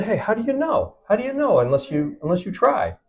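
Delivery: high-pitched, protesting comeback; challenging retort. Retold or imitated. Filmmaker answering those who doubt him, challenging.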